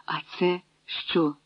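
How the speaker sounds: soft, slow whispered question; a hushed, puzzled whisper. A narrator's reading. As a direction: whisper it, surprised. Old woman notices the baby.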